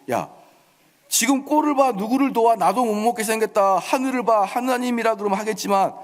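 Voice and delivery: sarcastic. Acted. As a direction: scold the beggar in one scornful rush. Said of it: "이러면서 빈정거립니다".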